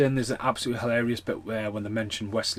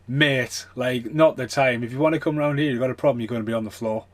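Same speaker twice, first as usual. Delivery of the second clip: louder, firm warning to the neighbour; retold warning; 2 semitones higher, 5 dB louder than usual. Telling the shouting neighbour off, louder firm warning. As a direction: lay down a hard-man warning, a bit louder. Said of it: "I just stood and went".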